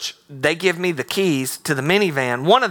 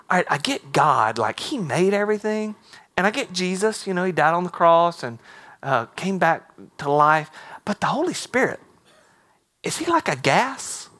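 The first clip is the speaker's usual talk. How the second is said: voicing the boy; 3 semitones higher than usual. Seventh grade boy asks at 4 AM.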